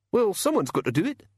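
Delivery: high, sneering little imp; cheeky high goblin snarl; giggly sneering imp. A narrator's reading. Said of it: "said the imp".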